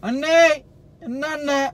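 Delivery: loud high call across. Real, not acted. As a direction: shout to get his attention. Calling out to Tamil uncle.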